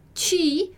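"ti" said as "tchi", drawn apart; som do C I. Shown as a demonstration. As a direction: say "ti" with a tch sound. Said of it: "O C I sempre o som de". ("ti" com som de tchi)

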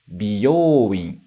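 "Byoin" as bi-yo-u-in, separate syllables; teacher models beauty salon word "Byoin" split; Japanese biyouin. Shown as a demonstration. Teacher contrasting salon word: "Byoin" as bi-yo-u-in. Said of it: "Agora, o salão de beleza".

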